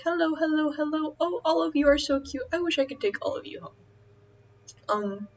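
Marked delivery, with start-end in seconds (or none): 0.0-3.8 put-on high baby-talk greeting; cooing at animals. Cooing high at the animals in the pet store. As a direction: coo at cute pets in a shop. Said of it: "be like".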